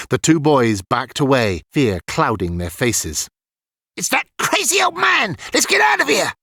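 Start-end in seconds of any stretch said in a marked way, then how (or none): 4.0-6.3 put-on high, shouted boyish panic; scared yell. A narrator's reading. Petey fleeing the old man, high frightened yell. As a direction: yell and bolt. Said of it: "Petey yelled".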